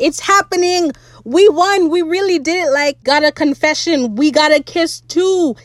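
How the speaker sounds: high-pitched, gleeful celebrating; excited squeal. Retold or imitated. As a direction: squeal it like you just won. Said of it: "I squealed so hard".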